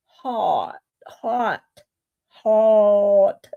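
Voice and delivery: Hot steeds herhaald met open o; trying to say it. Shown as a demonstration. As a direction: herhaal Hot proberend, zoekend. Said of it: "As soon as I go to say it".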